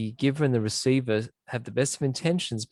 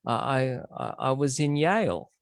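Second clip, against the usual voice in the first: mildly sheepish, hesitant admission; retold awkward, halting confession; embarrassed. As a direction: stall with uhs and repeats, acting a touch embarrassed. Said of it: "looks a bit embarrassed".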